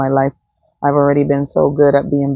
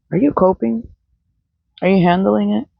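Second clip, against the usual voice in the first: mock concern; 3 semitones higher than usual. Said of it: "Those are the weird questions".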